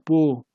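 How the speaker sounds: 보 as the Chinese-style reading of 박, no final k; one isolated 보, demonstrating Chinese pronunciation. Shown as a demonstration. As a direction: say 보 alone as an open syllable. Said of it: "중국식 발음으로 읽으면 그게 보입니다".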